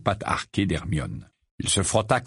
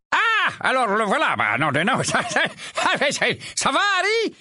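put-on high, halting sleepy old rogue; sleepy grumble. Mondingus waking up at the table, groggy. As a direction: stumble awake, confused.

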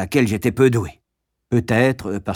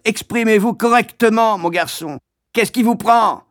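hectoring =138; 10 semitones higher, 3 dB louder than usual. Acted. Master hectoring.

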